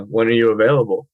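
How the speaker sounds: small lift on AVAILABLE, then down; slightly rising intonation. Shown as a demonstration. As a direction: try the question with little melody. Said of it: "Maybe it goes up a little bit".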